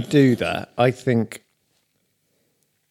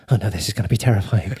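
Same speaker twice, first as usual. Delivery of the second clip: anxious inner voice; 6 semitones lower, faster than usual. Retold or imitated. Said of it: "the other little voice comes in".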